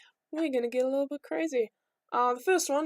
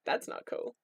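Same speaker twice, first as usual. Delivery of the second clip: quietly whispered objection; hushed disapproval; 6 dB quieter than usual. Retold or imitated. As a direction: breathe it out unimpressed. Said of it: "is like".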